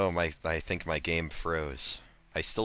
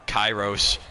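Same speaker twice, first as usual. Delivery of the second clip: louder urgent call of the name; 5 dB louder than usual. Real, not acted. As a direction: call his name out sharply. Calling friend's name, louder.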